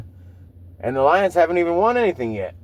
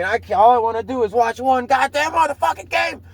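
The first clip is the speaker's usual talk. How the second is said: higher, put-on whine of a fed-up sports fan; mock whiny complaint; 7 semitones higher than usual. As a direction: ham up the husband who just wants his game. Mocking a comedian's complaint jokes.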